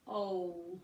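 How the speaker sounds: "ol" held, with a w glide before the L; isolated demo of the syllable "ol"; imaginary W. Shown as a demonstration. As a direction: sound out "ol" by itself, O rounding into W. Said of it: "imaginary W in there".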